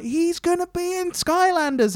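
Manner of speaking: mock announcer. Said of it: "And then it's like".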